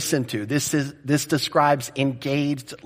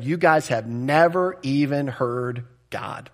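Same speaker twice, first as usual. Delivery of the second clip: slow, weighted emphasis; slow, emphatic pronouncement without shouting; slower than usual. Retold or imitated. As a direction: land each word deliberately. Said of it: "Jesus is emphatically saying".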